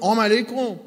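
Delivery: salam garbled into "آم علیکم"; mispronounced greeting. Retold or imitated. Preacher imitates a boy greeting him, garbled greeting. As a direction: say "آم علیکم" with the opening "sal" swallowed. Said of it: "این همون سلام علیکم خودمونه".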